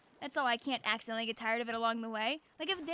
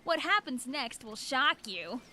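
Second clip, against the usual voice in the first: clickbait video narrator. Pretend. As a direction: tease it like a clickbait title. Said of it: "you didn't expect that from the title".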